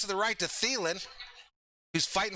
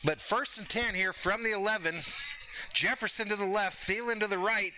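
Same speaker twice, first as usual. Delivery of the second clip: play-by-play call; 3 semitones higher than usual. Acted. Streamer calls the goal-line drive, announcer style.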